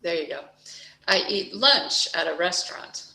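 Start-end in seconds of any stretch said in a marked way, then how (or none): 1.1-3.0 lunch pushed out; stress on lunch. Shown as a demonstration. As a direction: hit the word lunch. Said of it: "stress the way I stress the words".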